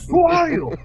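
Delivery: a noble confronting his identical twin, shrill with outrage; indignant demand. Acted. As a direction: demand it of the double, affronted. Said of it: "they're like".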